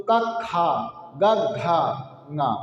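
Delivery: light and breathy letters in turn; teacher's recap demo; breath contrast. Shown as a demonstration. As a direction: alternate का short and खा aspirated. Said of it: "स्पष्ट हो गया होगा".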